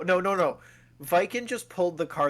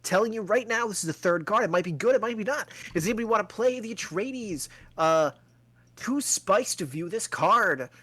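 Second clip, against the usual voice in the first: auctioneer; 4 semitones higher than usual. Acted. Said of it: "I can do something even worse for you".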